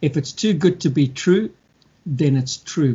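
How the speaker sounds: slow, deliberate repeat of the saying; slowed-down repeat for emphasis; said slowly. Shown as a demonstration. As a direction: spell it out slowly so it sinks in. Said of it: "I'll say that slowly".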